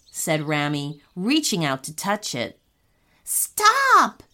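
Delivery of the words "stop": high, urgent cry of warning; urgent shout. A narrator's reading. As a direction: call it out sharply to halt someone. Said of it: "shouted Keon urgently".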